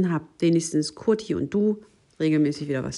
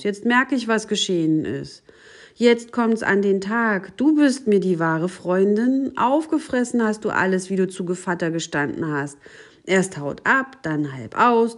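louder, higher storybook outrage; indignant accusation; 4 semitones higher, 6 dB louder than usual. A narrator's reading. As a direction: let the accusation build in a raised voice. Maus klagt die Katze an. (empört und anklagend vorgelesen)

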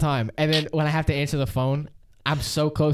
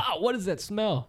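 acted startled disgust; 7 semitones higher, 4 dB quieter than usual. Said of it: "And like".

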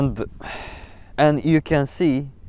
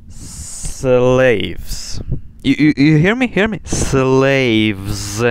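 imitating angry teacher; 4 dB louder, much slower than usual.

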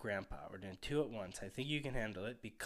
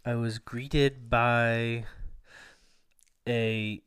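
slow, pompous, over-formal complaint; mock-grand; 9 dB louder, much slower than usual. Real, not acted. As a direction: drag each word out grandly.

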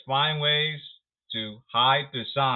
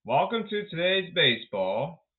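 sarcastic; 3 semitones higher than usual. Acted. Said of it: "I'll be sarcastic here".

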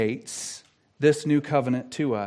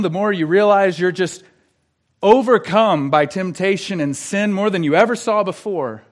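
impassioned preaching; 2 semitones higher, 5 dB louder than usual. Real, not acted. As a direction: voice lifts into urgent pulpit delivery. Preaches with rising force.

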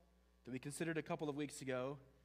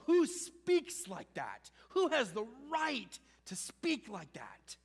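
slow, louder, each word pressed; emphatic challenge; 6 semitones higher, 3 dB louder than usual. Real, not acted. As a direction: throw the question at the room. Preacher repeats the rhetorical question.

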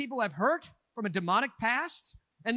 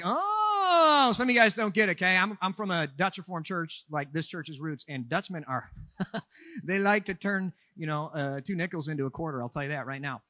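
lightly voiced thrifty old Dutchman, a loud start that settles lower; old Dutchman Paul; 5 semitones lower, 3 dB louder than usual. Pastor jokingly voices Paul as an old Dutchman, mild put-on. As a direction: play Paul as a penny-pinching Dutch uncle, half laughing. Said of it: "he sounds like an old Dutchman".

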